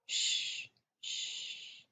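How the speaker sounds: put-on soft whispered shh to calm a child; father calming a sobbing boy, whispered shh; hushing whisper. A narrator's reading. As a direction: hush him gently, voiceless. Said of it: "patting his head".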